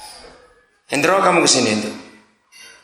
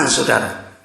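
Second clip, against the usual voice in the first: ordinary talk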